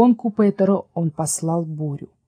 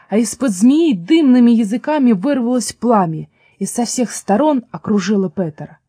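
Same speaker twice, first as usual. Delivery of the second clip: ordinary delivery, nothing marked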